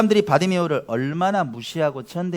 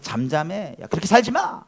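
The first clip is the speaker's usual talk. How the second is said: mock scold; 3 semitones higher than usual. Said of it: "이렇게 방해하는 사람들이 있거든요".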